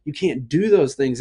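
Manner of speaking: a touch high, fussing scold; scolding dad. Retold or imitated. Dad telling toddler not to color walls, scolding. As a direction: lecture the toddler. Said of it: "I'm like".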